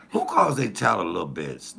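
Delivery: normal talking voice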